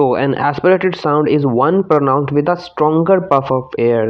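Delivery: reads the definition out slowly and clearly; slow textbook reading. Shown as a demonstration. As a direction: dictate the definition slowly to students. Reading the textbook answer aloud. (धीमी आवाज़ में परिभाषा पढ़ना)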